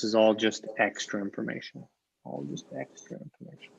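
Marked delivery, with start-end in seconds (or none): 2.2-3.7 breathy whispered repeat, much softer; whispered echo. Shown as a demonstration. Teacher echoing the point to students, whispered. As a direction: let it fall to a whisper as an afterthought. Teacher echoes the phrase softly.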